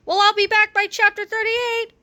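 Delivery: high, bright call; cheery George. A narrator's reading. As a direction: George promises to return, upbeat character voice. George as time-traveler.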